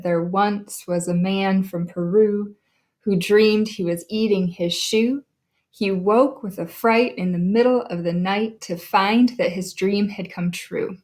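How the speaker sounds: nod-along metre, stressed beats on "fright", "night", "true"; limerick beat. Shown as a demonstration. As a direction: recite in a bouncing limerick rhythm, leaning on "man", "Peru", "dreamed", "shoe". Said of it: "So it should sound like this".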